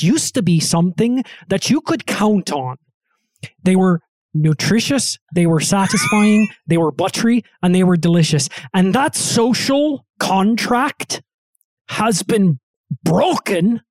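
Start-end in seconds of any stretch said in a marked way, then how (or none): 3.6-13.8 light Canadian lilt, a touch of brogue; hint of Canadian accent. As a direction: deliver a mock-solemn lament in a Canadian accent. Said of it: "he's a little Irish".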